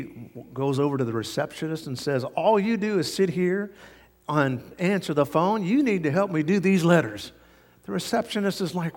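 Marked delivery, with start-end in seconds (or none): 2.2-7.3 higher, insistent acted complaint; retold irritated scolding; upset assistant. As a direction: take it out on a coworker, mildly. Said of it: "Now she's upset".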